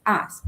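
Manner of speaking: "us" said as "as", open a. Shown as a demonstration. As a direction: start "us" with a Spanish a. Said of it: "se pronuncia como con una A al inicio".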